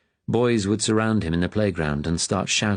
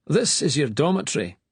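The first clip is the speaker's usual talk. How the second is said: stern master; 8 semitones higher than usual. A narrator's reading. Master addresses boys.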